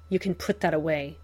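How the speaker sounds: lightly rasped, fast; raspy. Acted. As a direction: rasp it out tiredly. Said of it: "he rasps".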